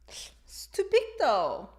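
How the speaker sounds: slow, surprised exclamation; drawn-out surprised reaction; surprise. Shown as a demonstration. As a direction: stretch it out in surprise.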